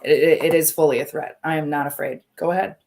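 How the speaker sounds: mean every word of the threat; defiant threat. Real, not acted. Streamer answering a chat comment, loud and defiant. Defending her threat to thieves.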